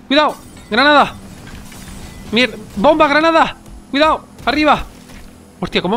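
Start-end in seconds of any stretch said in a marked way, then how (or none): 0.1-1.1 grenade warning yell. Real, not acted. Grenade thrown at them in game. 2.3-4.8 grenade warning yell. Real, not acted. Grenade lands, panicked warnings.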